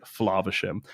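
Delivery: FLAVERSHAM with a long open "ah", as in "flahv"; upper-class long A. Shown as a demonstration. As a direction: say Flaversham the royal-family way, first vowel "ah". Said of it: "if you think of the royal family".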